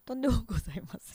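「とんでもございません」を早口で; さらっと速く「とんでもございません」; quick demo. Shown as a demonstration. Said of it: "の方が変って言われるな". (「とんでもございません」を早口で)

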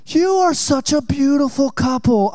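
put-on slow, sweet-talking old man; butter them up; lightly voiced smooth old salesman; flattering salesman.

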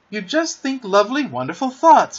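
lifted, emphatic exclamation; exclaiming. A narrator's reading. Peter explains flying to the children, eager exclamation. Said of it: "Peter exclaimed".

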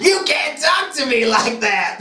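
mock snapping. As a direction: protest like an offended starlet. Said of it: "Lindsay snapped".

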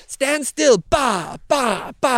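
high put-on voice with grunting bahs; mock grunts as he swings the branch; beekeeper Simon lashing. Simon thrashing the narrator with a branch, high mock grunts. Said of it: "getting beaten by the local beekeeper".

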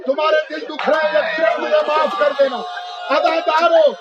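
declaimed Urdu majlis oratory; majlis lament preaching. Real, not acted. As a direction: preach the martyrs' grief to a crowd.

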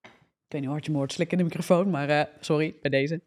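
talking right after a sip of water; speaking between sips of water; while sipping a drink. Real, not acted. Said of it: "neem even een slokje water".

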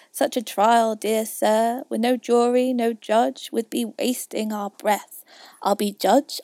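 projected poem reading; verse recitation. A narrator's reading. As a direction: hit the beats of the verse. Recites the mouse's tale.

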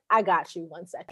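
the universe replying. Retold or imitated. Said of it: "the universe is like".

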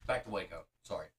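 talking through sticky caramel; chewing on caramel. Real, not acted. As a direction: mouth full of toffee. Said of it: "As I'm chewing on caramel".

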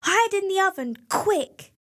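high, urgent hurried plea; urgent fright. A narrator's reading. Wife urging Jack into the oven, high urgent fright. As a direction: push him to hide, fast and scared.

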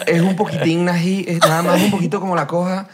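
amused, loose Venezuelan accent imitation; attempted Venezuelan accent. Shown as a demonstration. Mexican shows friends how Venezuelans talk, attempted Venezuelan accent. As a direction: try a relaxed Venezuelan accent, half laughing. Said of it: "no me va a salir ... el acento venezolano".

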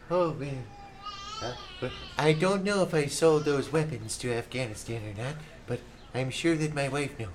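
lightly voiced old president; Reagan impression. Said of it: "Ronald Reagan".

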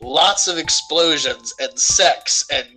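put-on a light Russian accent, broken English, as the director Uwe Boll; lightly put-on Russian accent, insisting on his vision; mock Russian accent. Uwe Boll brushing off studio notes, in a mild mock Russian accent. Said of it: "doing this Russian accent in my head and pretending I'm him".

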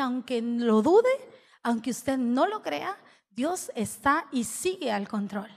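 slow, steady and sure; slow firm reassurance. Retold or imitated. To the upset client, slow firm reassurance.

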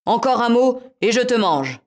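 loud menacing threat; threatening. Acted. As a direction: threaten her, hard and loud. Cat threatens.

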